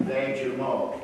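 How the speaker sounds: Les Jumeaux said the French way, nasal and rounded; French accent. Shown as a demonstration. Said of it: "developed my French accent".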